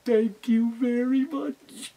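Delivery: slow, lightly put-on fox voice; sly fox thanks. Tricky the fox thanking the teacher, slow and sly. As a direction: draw out the thanks like a scheming fox.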